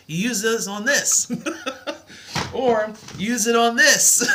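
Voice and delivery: giggling through the math joke; laughing. Real, not acted. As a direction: crack up while explaining.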